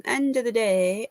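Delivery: "End of the day" in a Brummie accent. Shown as a demonstration. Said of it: "I love your Brummie accent".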